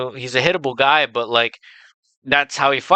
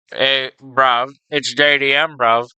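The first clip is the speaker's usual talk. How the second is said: put-on a mild, clumsy try at an Australian accent; half-hearted Aussie bloke voice, Australian accent barely there; attempted Australian accent; slower than usual. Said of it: "like, an Australian accent".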